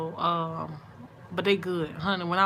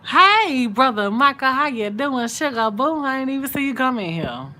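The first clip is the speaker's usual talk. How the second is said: much higher and louder, delighted hello; light up as he joins the stream; greeting a friend who just joined, thrilled and loud; excited greeting; 7 semitones higher, 9 dB louder than usual. Real, not acted.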